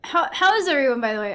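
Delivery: talking around a bite of taco; mouth full. Real, not acted. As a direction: speak through a mouthful of food. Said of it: "I'm eating these tacos".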